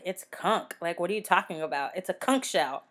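"conch" said as "konk"; "conch" rhyming with "honk"; Southern conch with K. Retold or imitated. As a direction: end "conch" on a hard K, like "kunk". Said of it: "conch is how everybody pronounces it down south".

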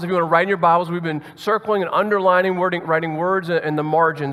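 usual speaking voice

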